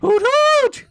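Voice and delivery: high loud hooting owl call; owlbear hoot. Acted. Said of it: "What was that again?".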